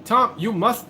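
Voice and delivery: high-pitched, poorly faked African accent; attempted African accent. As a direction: have a go at the wife's African accent. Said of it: "I can't really do African accents very well".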